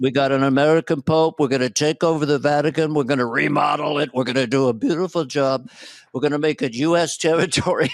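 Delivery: lightly imitated boastful president; Trump. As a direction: riff as a hint of the president. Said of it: "I mean, Trump".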